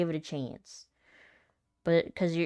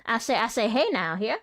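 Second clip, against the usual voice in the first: loud, high Southern cartoon bluster; Foghorn Leghorn; 7 semitones higher, 6 dB louder than usual. Joking about uncontrolled accents, loud Foghorn Leghorn impression. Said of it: "Was it foghorn leghorn?".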